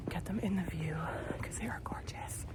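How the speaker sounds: hushed. Real, not acted. Vlogger filming the trees outdoors, softly hushed. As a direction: speak softly so as not to disturb.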